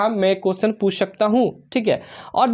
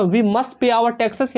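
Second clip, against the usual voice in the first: words drawn out and spaced; slow dictation read; much slower than usual. Shown as a demonstration. Teacher to students, reading the example slowly.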